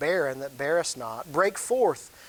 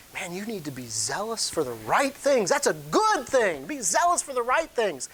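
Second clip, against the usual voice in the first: higher, emphatic urging as Paul; urgent exhortation; 5 semitones higher than usual. Acted. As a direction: press the point home earnestly. Preacher voices Paul urging church.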